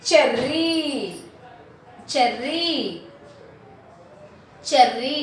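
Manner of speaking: Cherry with its final ee held; teacher's careful Cherry, ending in a rising ee; stressed E sound. Shown as a demonstration. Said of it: "E sound".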